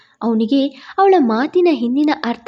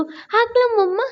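put-on higher little boy's question; excited child; 8 semitones higher than usual. A narrator's reading. Small boy holding his uniform asking mum, higher and excited. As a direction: ask mummy like a thrilled small boy.

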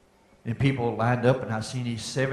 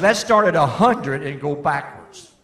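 louder, slower, pointed retelling; lightly voiced father making his point; emphatic quote; 4 semitones higher, 9 dB louder, slower than usual. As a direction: land the father's line with weight. Quoting Daddy, then repeating it.

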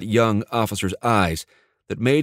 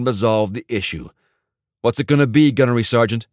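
stern command; 3 semitones higher, 4 dB louder than usual. Acted. Officer laying down the terms.

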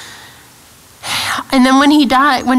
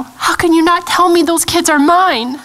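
raised, pleading protest; protesting to God; 5 semitones higher than usual. Retold or imitated. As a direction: plead a mother's claim on her children. Acted protest to God over her kids.

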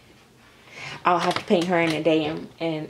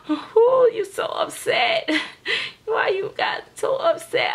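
very high-pitched sympathetic cooing; high, pitying baby-talk squeak; 14 semitones higher than usual. Pretend. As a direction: coo to an upset baby. Coos to the crying doll.

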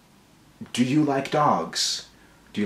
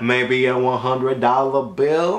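slow hustler; slower than usual. Acted. Slow hustling money request.

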